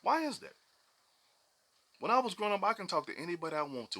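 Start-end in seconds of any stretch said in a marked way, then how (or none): 0.0-0.5 rhetorical outcry. Real, not acted.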